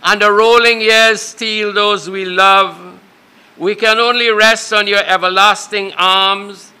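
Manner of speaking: measured, even-toned public prayer; formal pastoral prayer with steady cadence; funeral prayer. Real, not acted. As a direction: pray solemnly in phrases, pausing after each.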